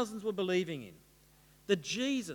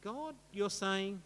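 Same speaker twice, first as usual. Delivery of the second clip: quiet, high rising questions; softly incredulous, long pauses between realisations; dawning disbelief; 7 semitones higher, 5 dB quieter than usual. Acted. Saul learning he is the rebel, hushed disbelief. Acts out Saul's dawning horror.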